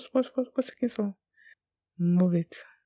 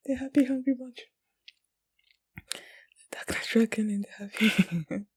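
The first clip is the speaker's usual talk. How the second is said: giggly whisper; 4 semitones higher than usual. Real, not acted. Viewer amused by a silly team name, giggly whisper.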